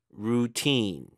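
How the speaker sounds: "Routine" said rou-TINE; careful demo, back half of "Routine" stressed; stress on second syllable. Shown as a demonstration. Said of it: "뒤쪽에 주고".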